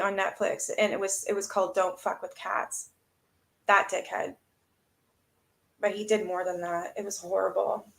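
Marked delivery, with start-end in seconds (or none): 3.7-4.4 breathy voiceless curse under the breath; unvoiced disgusted aside; disgusted mutter. Real, not acted. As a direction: spit it out in disgust. Disgusted aside while reading.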